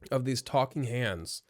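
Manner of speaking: speaking through small burps; talking while burping. Real, not acted. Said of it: "I keep burping into my own hand".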